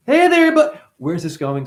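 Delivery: flirty skit voice. Acted. Skit for mom and priest, high camp flirting. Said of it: "So here's the skit".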